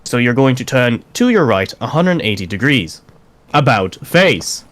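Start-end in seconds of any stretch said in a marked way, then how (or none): 3.5-4.7 slow, stretched parade-ground order; drawn-out drill command. Shown as a demonstration. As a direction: call it out like a drill sergeant. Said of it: "if your officer states about face".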